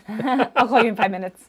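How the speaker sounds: breezy dismissal. Retold or imitated. Acting out brushing off caller.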